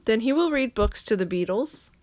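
ordinary delivery, nothing marked

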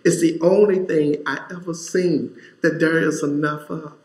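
a touch of the weeping woman, stress on only; gently voiced tearful exclamation; tearful woman's words. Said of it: "she points and she says".

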